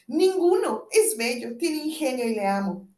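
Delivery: loud, high first word; eager reply. Acted. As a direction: defend him with delight. Rosana defends her love.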